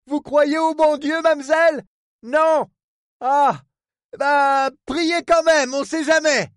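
high, insistent questioning; exclaiming harbour superintendent. Acted. Port man tells the woman to pray, urgent.

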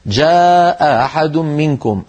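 slow "جاء أحد منكم", second hamza eased into a glide; long "جاء", then a softened onset on "أحد". Shown as a demonstration. Teacher showing eased hamza, "جاء أحد" with softened second stop. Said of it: "أو سهلوا إحدى الهمزتين".

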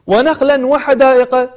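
ونخلا وحدائق spoken slowly, first word ending in clear n; clear tanween. Shown as a demonstration. Teacher giving another example, ونخلا وحدائق said slowly with clear tanween. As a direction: sound the n of ونخلا before وحدائق. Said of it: "التنوين بعد حرف الواو".

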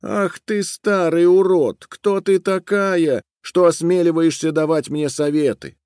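haughty girl mocking an old woman. A narrator's reading. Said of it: "стала издеваться над старухой".

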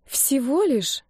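drawn out and let down, pitch up high; disappointed drawl. A narrator's reading. She drawls to Denis, disappointed by his tiny secret. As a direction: stretch it out, clearly let down. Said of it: "разочарованно протянула я".

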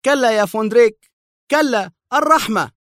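high, panicked cry for mercy; terrified scream. A narrator's reading. Henrik facing Vondrik's gun, terrified scream. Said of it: "ولوح بكفه وهو يصرخ".

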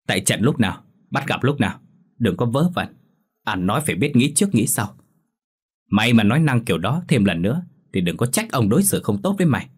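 a lightly voiced angry husband threatening his wife; furious husband. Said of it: "Tiếng của Tranh oang oang ... vô cùng tức giận". (chồng quát vợ giận dữ, giọng hơi cao)

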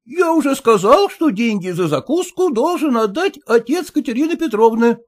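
a mild, lightly voiced exclamation; husband to the cook, mildly exclaiming about the bill. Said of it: "воскликнул".

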